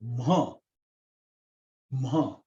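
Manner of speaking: teacher modelling throaty "ma"; separate, demonstrated "ma" sounds; vocal-sound "ma". Shown as a demonstration. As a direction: sound out "ma" from the vocal cords, one at a time. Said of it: "So it is pronounced".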